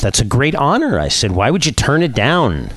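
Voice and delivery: a touch of amazed questioning; mildly astonished. Acted. Narrator questions friend turning down knighthood, mildly astonished.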